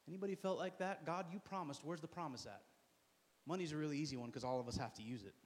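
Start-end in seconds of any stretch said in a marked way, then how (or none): 1.0-2.6 hushed disappointed prayer. Acted.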